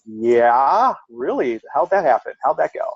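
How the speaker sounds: retold sceptical questions with swooping pitch; mock disbelief. Answering the ex's accusation, incredulous. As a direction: play back your incredulous comeback. Retelling his reply to an accusation.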